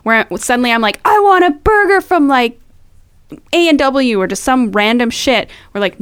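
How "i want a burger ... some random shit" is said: whiny craving. Retold or imitated. Craving food she can't have.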